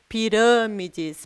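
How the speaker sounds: "Pirâmides" slowly, with a closed â; som fechado. Shown as a demonstration. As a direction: stretch "Pirâmides" to show the closed stressed vowel. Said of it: "o que deixa o som dessa palavra fechado". ("Pirâmides" devagar, com o â fechado)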